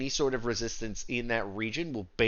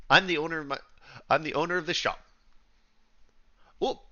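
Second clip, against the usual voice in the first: Canadian shopkeeper; 4 semitones higher than usual. Acted. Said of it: "every fucking Canadian stereotype".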